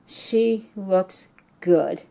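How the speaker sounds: slow, tearful and halting; holding back tears as she quotes her son; choked up. Real, not acted. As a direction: voice catching with real emotion. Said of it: "I still get choked up".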